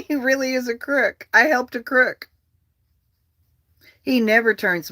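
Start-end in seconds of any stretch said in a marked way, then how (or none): 0.1-2.3 imitating Barr. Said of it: "He's like".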